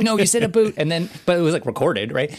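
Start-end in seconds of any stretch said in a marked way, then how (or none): 0.0-0.7 high, loud mock contradiction; teasing insistence. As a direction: imitate hosts gleefully insisting. Retold hosts insisting.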